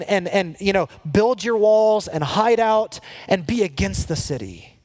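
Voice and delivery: rally the exiles to hide and wait; false prophet's voice. Acted. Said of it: "what they were saying is".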